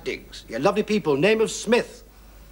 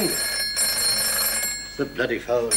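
muttered aside; 9 semitones lower, 4 dB quieter, much slower than usual. Acted.

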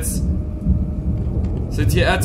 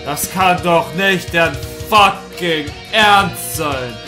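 outraged; 5 dB louder, slower than usual. Real, not acted. Louder disbelief.

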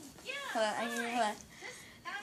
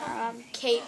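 whispering; 3 semitones lower, 9 dB quieter than usual. Shown as a demonstration. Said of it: "Say it backwards".

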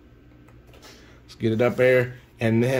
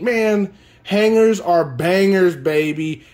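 louder, higher hype cheer; excited hype; 5 semitones higher, 4 dB louder than usual. Real, not acted. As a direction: shout the catchphrase, pumped. Hyped over a pulled autograph.

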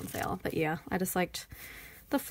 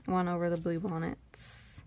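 usual speaking voice

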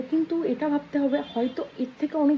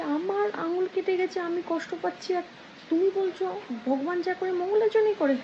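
higher-pitched indignant protest, acted; lightly voiced outrage, pitched up; angry king; 5 semitones higher than usual. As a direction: play a mildly indignant king. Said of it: "তো রাজামশাই ভীষণ ক্ষেপে গেছে".

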